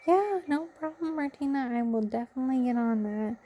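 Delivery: sweet. Retold or imitated. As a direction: mildly imitate his kind reassurance. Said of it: "And he was so sweet".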